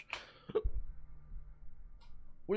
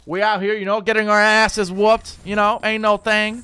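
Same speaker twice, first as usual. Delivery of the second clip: loud, high, slow street voice with a cracking voice; hammed-up hood voice; 10 semitones higher, 9 dB louder than usual. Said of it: "sometimes I do the voice crack on purpose".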